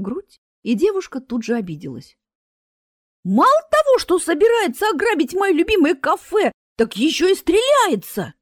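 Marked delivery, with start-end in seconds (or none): 3.2-8.3 much higher, louder indignant cry; indignant outburst. A narrator's reading. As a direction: explode with offended outrage. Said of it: "негодовала ученица".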